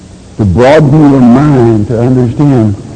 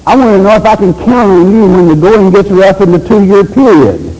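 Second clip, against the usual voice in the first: a lightly raised voice of God, testing; God challenging his people, mildly higher; voicing God; 7 semitones higher than usual. Preacher voicing God asking if he can count on them. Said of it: "God saying".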